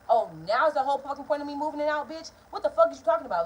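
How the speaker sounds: loud indignant retort; yelling back. Retold or imitated. Daughter yelling back at her mother, loud indignant retort. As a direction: fire it right back at her.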